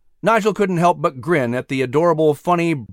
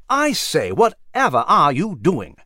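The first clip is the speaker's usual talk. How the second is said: demanding; slower than usual. Acted. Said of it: "Nigel demanded".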